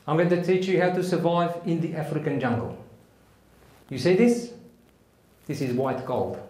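South African army instructor, measured delivery; brief the troops in a South African accent; deliberate, instructional South African accent. Acted. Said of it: "try my best South African accent".

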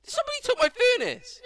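yelling across the room. Real, not acted. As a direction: yell it out across the house. Furnace stolen, yelling out.

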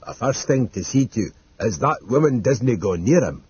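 a hint of a dour servant, measured; lightly put-on character voice, practical advice; Mister Dodd, lightly voiced countryman. Mister Dodd advising on guarding the old man, lightly voiced and practical.

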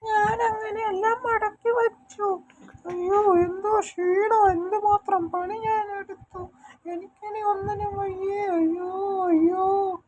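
squeaky cartoon character, worn out and moaning. Exhausted character moaning after folding all the clothes, squeaky cartoon voice. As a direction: play a tiny cartoon creature groaning from the work.

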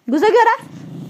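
teasing question. Real, not acted. Teasing the angry pet.

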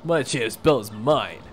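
lightly voiced cocky wrestler; a touch of a tough-guy champ; boastful brawler. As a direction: strut and brag like a ring champ. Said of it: "the famous Rockhawk".

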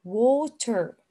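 "water" with a crisp t and a final r; "water" as WAW-ter, t fully released; alternative pronunciation. Shown as a demonstration. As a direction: sound the t in "water" and keep the r. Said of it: "You can say water".

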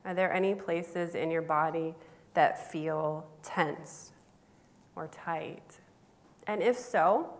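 unhurried meditation guide with long pauses; spacious guided-imagery delivery. Acted. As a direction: lead listeners gently through a visualization, pausing between phrases.

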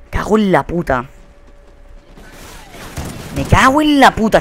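usual speaking voice

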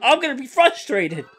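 retold frustrated yell. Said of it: "I was screaming".

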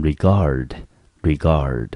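regard said with the weight on gard; stress on second syllable. Shown as a demonstration. Teacher modelling regard for students, stress on gard. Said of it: "整个字重音节落在第二个字".

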